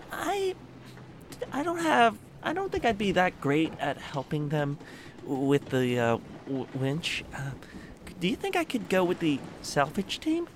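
nervous squeak. Acted. Riley nervously asking to switch.

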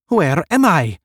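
high, loud bewildered question; loud questioning cry. A narrator's reading. Newborn nineteenth asking the others, crying out. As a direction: call out the question.

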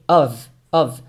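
"of, of" each ending in a voiced v. Shown as a demonstration. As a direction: say "of" as "ov", twice. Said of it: "Esse aqui é com som de V".

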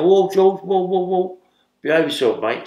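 loud, high calls of whoa to settle him; calling out to calm. Retold or imitated. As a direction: raise the voice to stop a big man smashing things. Calming a raging inmate.

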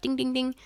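little high-pitched ding-ding-ding; imitated dinging. Podcaster mimics the noise in the elevator shaft, dinging. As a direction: mimic small metallic clinks. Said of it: "we heard the little elevator shaft".

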